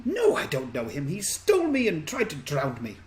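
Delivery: put-on indignant child, voice climbing; ostentatious young girl. Girl denying she knows her kidnapper, indignant and rising. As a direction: protest like an affronted little girl. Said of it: "most ostentatious, uh, ten-year-old girl".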